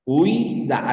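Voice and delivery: Huida said slowly with the stress on the i, hu-I-da; demo stress. Shown as a demonstration. Teacher to student, showing where the stress falls in Huida. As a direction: lean on the i in Huida. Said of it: "la fuerza de voz está acá".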